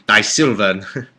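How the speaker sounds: slow, half-hearted British actor impression; lightly imitated British film star; Michael Caine. Shown as a demonstration. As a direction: try a rough London accent, drawn out. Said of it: "do a good Michael Caine".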